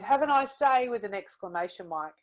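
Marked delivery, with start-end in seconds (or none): 0.0-0.9 cheerful read. Shown as a demonstration. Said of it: "they're really excited".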